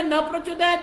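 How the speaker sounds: न प्रचोदयात् as plain "na prachodayat"; visarga dropped. Retold or imitated. Teacher imitating hasty reciters, bare "na" in न प्रचोदयात्. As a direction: skip the breath after न, straight into प्रचोदयात्. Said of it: "कई लोग जल्दी बोलने में".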